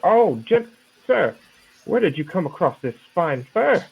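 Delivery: put-on doddering old man. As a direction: play a lost, stumbling old patron, voice lifted up. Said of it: "in his old man figure".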